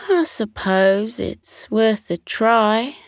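slow, lightly voiced resigned bird; resigned sigh. Chipper reluctantly accepting friends' plan, resigned. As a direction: agree without hope. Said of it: "sighed Chipper".

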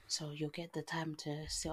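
whispered teasing aside; whispering. Real, not acted. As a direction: whisper it like a secret. Teasing aside about Portugal trip.

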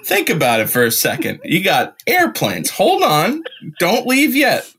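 a hint of a rambling conspiracy father; conspiracy dad. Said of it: "he's like".

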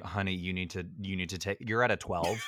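lightly voiced director, low and soft at first; director reining in actor. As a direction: gently tell an overacting star to tone it down. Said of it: "if I was the director".

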